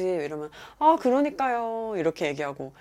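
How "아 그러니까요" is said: slow, higher drawn-out agreement; drawn-out polite deflection; non-committal agreement. Acted. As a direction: dodge with a long, lilting agreement. Demonstrates stock reply to nosy question.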